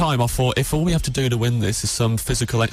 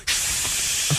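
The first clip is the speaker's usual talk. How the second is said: mock shush; 4 dB quieter than usual. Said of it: "really loud".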